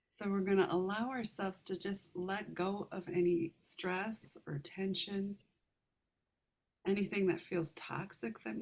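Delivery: calm meditation guide, unhurried, with long pauses; guided meditation. Real, not acted. Meditation leader guiding listeners to relax the heart, calm guided meditation. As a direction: ease listeners gently through each step, leaving room to breathe.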